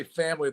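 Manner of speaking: "family" with a drawled Southern first vowel; Southern-style "family". Shown as a demonstration. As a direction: say "family" as a mock Southerner would. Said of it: "the proper way moving forward".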